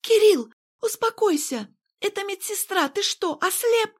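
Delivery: high, urgent woman's plea; frightened Irene. A narrator's reading. Irene pleading with Kirill to calm down, high and urgent. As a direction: grab his arm and beg him to stop. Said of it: "Тут подскочила Ирен".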